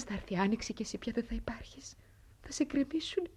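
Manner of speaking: soft, breathy goodbye; whispering goodbye to a beloved home; whispered farewell. Acted. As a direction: whisper to the old house.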